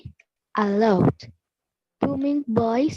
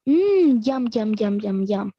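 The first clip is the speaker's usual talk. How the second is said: mock yum yum; 4 semitones lower than usual. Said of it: "and said".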